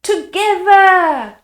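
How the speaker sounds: loud, slow straining call; huffing. A narrator's reading. Third man rallying the others, loud and straining. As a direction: heave on the word. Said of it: "huffed a third".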